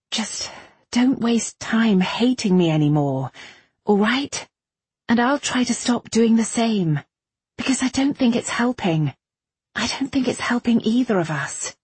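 high, weary appeal; tired, pleading Irene. A narrator's reading. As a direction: plead for a truce while worn out.

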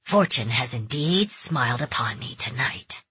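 sinister gruff stranger. Acted. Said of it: "a gruff voice resonated".

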